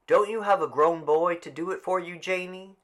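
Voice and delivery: Mr Summers' voice. Acted. Mr Summers asks Mrs Dunbar.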